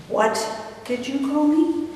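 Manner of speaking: restrained, icy challenge. Retold or imitated. Offended brother looking down at his sister, icy. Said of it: "with ice in his voice".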